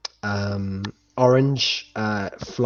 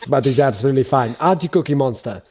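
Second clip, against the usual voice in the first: cooing at giant; 3 semitones higher, 7 dB louder, faster than usual. Acted. Crewman coos at the giant.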